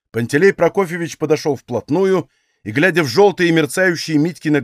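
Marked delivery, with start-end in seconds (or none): none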